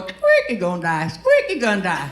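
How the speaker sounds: rhythmic squeak, repeated like wipers swiping; squeaky windshield wipers. Acted. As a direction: imitate squeaky wiper blades talking. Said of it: "my windshield wipers going".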